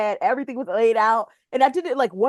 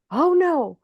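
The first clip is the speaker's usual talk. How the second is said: retold panic; 7 semitones higher, 3 dB louder, much slower than usual. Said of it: "I heard the panic in his voice".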